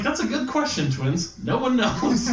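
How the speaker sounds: mock solemn. Dad answers the twins.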